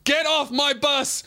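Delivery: high slow shout; a typical driver's shout; stock driver yell. Retold or imitated. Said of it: "they always go".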